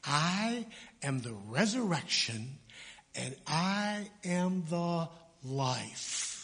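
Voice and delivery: slow, weighty, stressing I; Jesus solemnly declaring himself to Martha; solemn pronouncement. Retold or imitated. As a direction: proclaim each I am deliberately. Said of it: "he pronounces it".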